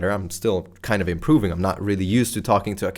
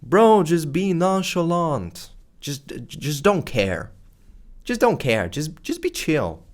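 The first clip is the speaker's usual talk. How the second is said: higher, slow, lazy dude voice; imitating a too-cool bro; mock nonchalant bro; 6 semitones higher, slower than usual. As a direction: drawl it like you couldn't care less. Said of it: "an idea that everybody subscribes to, which is".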